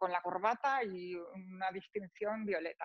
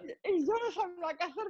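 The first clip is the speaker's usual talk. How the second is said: giggling through the telling; a touch of laughter; laughing retelling; 8 semitones higher, 3 dB louder than usual. Real, not acted. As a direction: laugh while you tell it. Laughing retelling the bus story.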